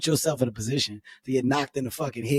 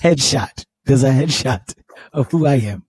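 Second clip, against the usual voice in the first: imitating an African-accented plea; mock-earnest African accent; 4 dB louder than usual. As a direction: put on an African accent, pleading. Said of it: "He put the accent on".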